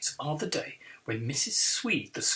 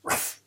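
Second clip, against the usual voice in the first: dog bark. Acted. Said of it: "Betty interrupts".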